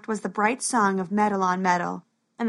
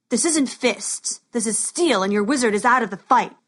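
tough guy. Acted. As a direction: sneer it like a street thug. Thug threatens Max in story.

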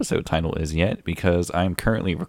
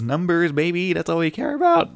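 higher, sleazy money-hungry voice; possessed greedy voice; 11 semitones higher than usual. Acted. Host gets possessed talking about audience numbers, higher greedy voice. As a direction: sound suddenly taken over by greed. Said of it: "I just got possessed or something".

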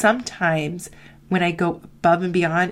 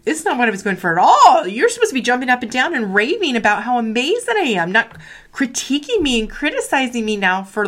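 mock-offended, louder with a laugh; indignant inner voice; 3 semitones higher, 4 dB louder than usual. Her proud inner voice answering critique, indignant and loud. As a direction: huff like your pride got wounded. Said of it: "that critique and that analysis is like".

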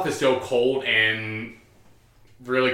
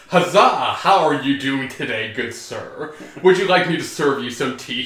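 a touch louder, hammed-up chipper greeting; fake cheery politeness; 3 dB louder than usual. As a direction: play at being sweetly normal, a bit overdone. Tharja acting overly normal.

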